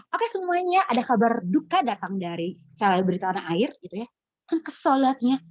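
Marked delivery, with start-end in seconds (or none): 0.1-3.7 smiling presenter. Retold or imitated. Infotainment presenter cheerfully announcing a death, mock smiling. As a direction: smile through the sad news like a cheery host. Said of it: "si presenternya nih senyum".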